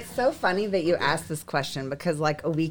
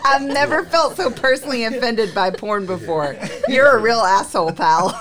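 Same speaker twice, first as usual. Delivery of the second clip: reading through laughter; laughing read; 3 semitones higher than usual. Retold or imitated. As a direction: read it cracking up. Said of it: "He said".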